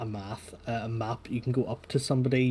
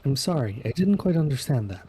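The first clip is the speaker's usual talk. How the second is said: chipper robotic phone assistant; 3 semitones higher, 4 dB louder than usual. Acted. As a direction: answer like a virtual assistant.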